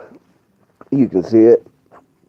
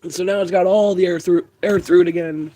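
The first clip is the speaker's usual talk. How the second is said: wheezing, short of breath; airy strained voice after coughing; wheezy voice; 4 semitones higher, 4 dB quieter than usual. Real, not acted. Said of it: "I can't breathe straight".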